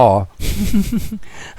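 laugh. A narrator's reading. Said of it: "ปิดปากหัวเราะ".

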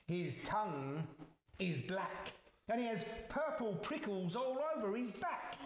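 lightly voiced mouse telling tall tales; boasting mouse. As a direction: act amazed, then describe the monster with relish. Mouse describes the Gruffalo.

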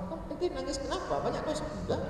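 high, hushed tearful voice; mock weeping. Congregant asked why he cries at group zikir, mock weeping. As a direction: act a soft, high-pitched sob through the words.

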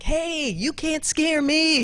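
mock bravado. Bold retort to the boss.

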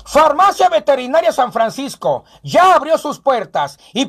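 brisk announcer selling the sponsors; upbeat sponsor read; radio ad read. Acted. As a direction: pitch it like a local radio spot. Reads radio sponsor ads.

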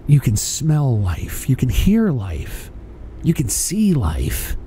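deep inspirational persona voice; Mister Optimism. Pretend. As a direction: preach wonder at life like a guru. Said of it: "Mister Optimism".

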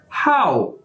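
हाउ said like English how; Chinese word pronounced. Shown as a demonstration. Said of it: "इसे अदा कैसे करना है". (हाउ को अंग्रेज़ी how की तरह बोलें)

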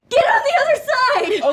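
shouted order. Acted. Player shouting at the party to shift sides. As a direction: bark the command across the car.

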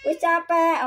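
voicing the tired cat. Cat's voiced complaint.

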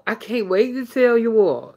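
Southern accent on the vowels; strong accent. Real, not acted. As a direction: let the Southern accent show. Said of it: "Look at that accent".

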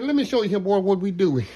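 lightly voiced old Cajun chef; imitating the old chef. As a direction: imitate the old Louisiana chef teasing a Texas boy. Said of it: "He said".

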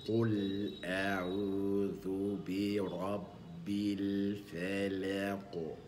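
very slow drawn-out chanted recitation; slow Quran recitation. Shown as a demonstration. Teacher reciting the verse slowly for students to repeat. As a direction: draw out each word as in tartil. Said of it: "تبدأ الآية الأولى من سورة الفلق".

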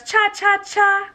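playful chant. Acted. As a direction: bounce it up for the little dino. Tiny dino dancing line.

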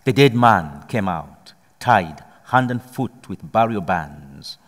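measured, solemn scripture reading; steady liturgical reading voice; gospel reading. Acted. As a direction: read the Gospel to the congregation. Reads the gospel aloud.

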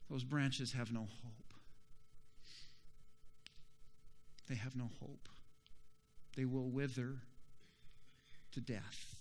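low, soft, solemn warning; grave hush. Real, not acted. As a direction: let each phrase sink away between pauses. Preacher drops to grave warning.

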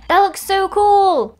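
high, loud and slow gush; thrilled. Real, not acted. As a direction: savour the delight. Admires the table.

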